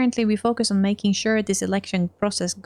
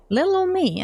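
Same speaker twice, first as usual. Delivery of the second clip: high, coy little voice; 9 semitones higher than usual. Acted. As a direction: play innocent, sweetly coy. Coy mock modesty.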